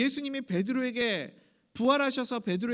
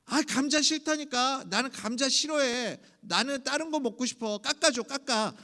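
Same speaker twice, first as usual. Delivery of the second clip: acted petulant refusal, slightly raised voice; sulky child; 3 semitones higher than usual. Child refusing grandmother's potato offer, mock sulky whining. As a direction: play a stubborn kid fussing at grandma. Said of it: "할머니한테 괜히 심통 부리고".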